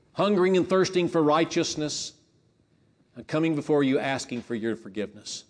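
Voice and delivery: fervent, pleading prayer to God, pitch lifting on the beatitudes; earnest prayer. Shown as a demonstration. Preacher voicing a sinner's prayer, earnest and pleading.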